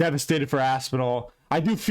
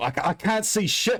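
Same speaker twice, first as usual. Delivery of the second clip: put-on pitched-up, higher Australian accent; 5 semitones higher than usual. Ranting about the crowd booing Tom Aspinall, the speaker quotes him in an Australian accent. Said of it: "I just did an Australian accent there".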